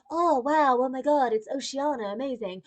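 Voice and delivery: hammed-up wide-eyed gushing; mock amazement. Mimicking Barbie entering a new world, mock-awed. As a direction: put on an awestruck Barbie gasp. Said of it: "she's like".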